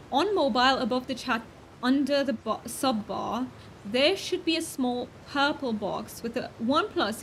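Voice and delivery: lightly faked British accent, not far from her own voice; playful British accent. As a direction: redo it in a mild amateur British accent. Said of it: "oh, I forgot my accent".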